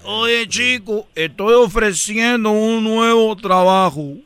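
Cuban accent. Shown as a demonstration. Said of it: "Di, di".

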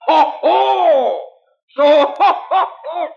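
loud, high belly laugh; mocking laugh. Wagon driver laughing off the would-be robbers. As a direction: laugh in their faces.

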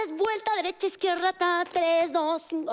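high mock dance-captain count; imitating the dance captain barking out steps. Bossy dancer counting steps for the group, mock-imitated. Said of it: "es que pongan atención".

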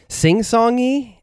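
high, slow sing-song lilt; sing-songy. Shown as a demonstration. Praising the Argentinian Spanish, a high slow sing-song. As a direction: let it float up and sway slowly. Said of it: "this Italian flavor that's".

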